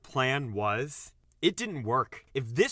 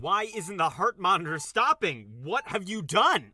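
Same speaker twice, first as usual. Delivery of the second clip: alarmed demand; 7 semitones higher, 4 dB louder than usual. Acted. Doctor alarmed at the monitor.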